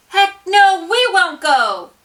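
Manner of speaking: high, loud protest chant; father joins the shout. A narrator's reading. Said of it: "he finally cried".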